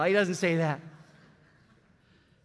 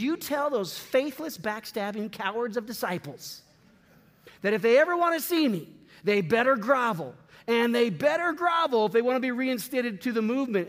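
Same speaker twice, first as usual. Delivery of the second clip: mock angry ultimatum; 2 semitones higher than usual. Preacher imagines what Jesus didn't say, mock angry and fast. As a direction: sneer it like a wounded boss.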